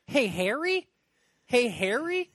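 high, loud exasperated shout at a character; yelling at the screen. Acted. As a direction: shout the obvious twist at the clueless hero. Yelling at movie character Harry.

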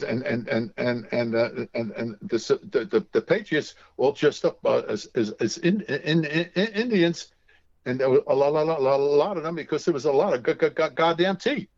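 stuttering blurt with a curse; mock Tourette's stammer, swearing mid-word; a retold friend's stammering outburst, lightly voiced; imitating Jerry's stutter. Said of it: "Told her she has Tourette's".

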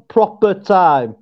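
slow Yorkshire "proper time"; Yorkshire demonstration. Shown as a demonstration. Co-host shows how it goes, slow Yorkshire accent. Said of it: "So it's sort of like".

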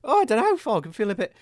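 groggy and ill; sick, croaky voice. Acted. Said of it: "possessed by a buffoon".

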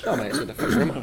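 put-on Cockney accent. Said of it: "Speak in a London Cockney accent".

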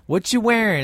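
high, playful imitated teasing. Mike pausing, then needling Marcus, retold teasing. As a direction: pitch it up to wind him up. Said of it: "he starts to mess with".

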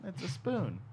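silly Australian comeback; bad Australian accent. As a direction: put on a fake Australian accent. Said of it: "really bad Australian accents".

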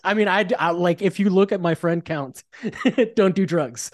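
laughing nervously through the words. Real, not acted. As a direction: giggle uneasily while talking. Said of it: "I'm laughing nervously".

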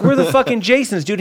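giggly mock boast; laughing retell. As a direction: crack up while quoting yourself. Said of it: "Yeah, I was like".

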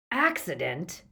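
"Accident" echoed as a mocking question; mock disbelief on "Accident", ending upward; jeering echo. A narrator's reading. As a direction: repeat "Accident" clearly with a sceptical rise. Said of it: "There was more jeering laughter".

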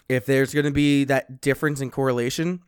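slightly winded after chugging a beer; catching breath between words. Real, not acted. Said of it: "it sounds like I'm out of breath".

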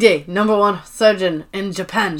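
imitated Japanese accent; Hide. Warehouse worker begins telling his story, mock Japanese accent. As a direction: lightly put on broken English with a Japanese accent. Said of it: "he just starts with the story".

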